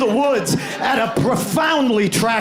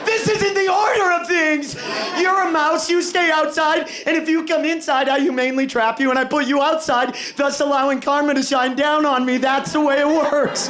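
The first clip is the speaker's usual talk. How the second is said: much higher, shrill mock-indignant lecture; shrill PTA mom voice; 5 semitones higher than usual. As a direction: go up high like an outraged PTA mom. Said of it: "His voice got shrill and he was like".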